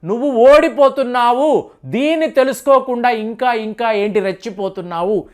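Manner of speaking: fast, mock-angry rebuke; a hint of a furious scolding, rushed at the start; Trump scolding. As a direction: lightly imitate a president berating a guest. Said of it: "Donald Trump గారి యొక్క tone అలా మారిపోవడం".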